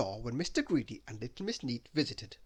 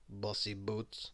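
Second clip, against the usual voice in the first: low, slow, soft mutter; quiet, drawn-out sly insult; under his breath; 4 semitones lower, 6 dB quieter, slower than usual. A narrator's reading. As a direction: mutter it secretly. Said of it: "very softly, under his breath".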